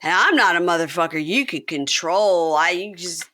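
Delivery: swagger it out; mock tough Chance. Chance at the bar, mock boastful. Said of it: "his talking head... and goes".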